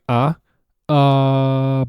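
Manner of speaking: AH held long, loud and level; straight-line vowel. Shown as a demonstration. Teacher showing a straight line of sound, "Ah" held level. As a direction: sustain "uh" on one straight, unbending tone. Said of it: "It's not a straight line".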